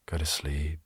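soft unvoiced hush to sleep; whisper. Telling a camper to sleep, whispered. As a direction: whisper it like settling a child.

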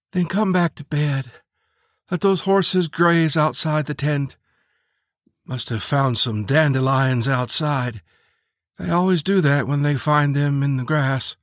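a hint of a woman coaxing her partner; lightly voiced sleepy woman. Turtle Dove calling Preacher back to bed, lightly voiced woman.

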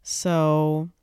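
talking around a retainer; slightly thick speech from retainers; wearing a retainer. Real, not acted. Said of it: "I have my retainers in".

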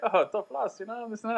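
high-pitched mock French accent; bad French accent. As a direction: imitate the French counterman, high and teasing. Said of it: "trying to do a French accent".

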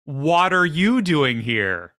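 mock surprised hydrogen. Telling a chemistry joke to the hosts, slow, high mock surprise. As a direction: play the hydrogen asking the oxygen why it's there.

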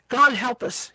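loud soldier's bellow. Acted. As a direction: bellow it at the man beside you. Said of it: "he bellowed to the man next to him".

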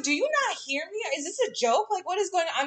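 mild mock outrage at mom; getting mad. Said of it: "I'm getting so mad".

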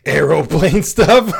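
slow, loud mock question; teasing disbelief. Real, not acted. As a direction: tease the word. Teasing partner's wording.

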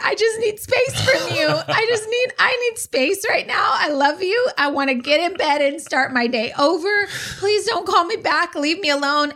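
high, teary plea to be left alone; pleading for space. Retold or imitated. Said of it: "at one point I said".

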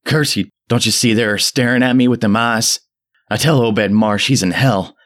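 put-on high, loud frantic old man scream. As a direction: shriek it out in mad frenzy. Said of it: "Zadok was really screaming now".

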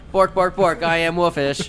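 Wolfish barking. Acted. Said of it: "Wolfish going".

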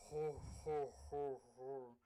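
mock monster laugh; zombie laugh. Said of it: "the zombie's going".

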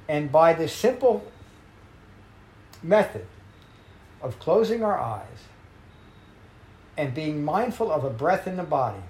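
spaced-out phrases with long pauses between them; teacher slowing down to underline the method; slow emphasis. Shown as a demonstration. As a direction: lean on each phrase deliberately. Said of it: "I'm emphasizing it for emphasis".

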